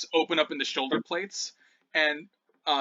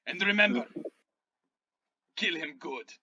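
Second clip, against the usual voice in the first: character's parting order; 3 semitones higher than usual. Acted. Game master as Balthazar addressing Nox, measured command. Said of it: "he looks over at Nox and he says".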